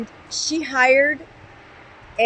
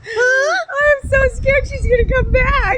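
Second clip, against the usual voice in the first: laughing while talking; 10 semitones higher, slower than usual. Real, not acted. Laughing joke.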